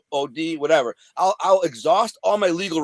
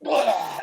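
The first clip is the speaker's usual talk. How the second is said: mock retching; 4 semitones higher than usual. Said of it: "I was just like".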